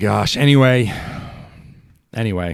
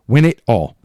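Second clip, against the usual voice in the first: louder, punched repeat; the fan's demand to the team, repeated louder; loud insistent demand; 3 semitones higher, 5 dB louder than usual. Real, not acted. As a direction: hit it harder the second time. Repeated demand, louder second take.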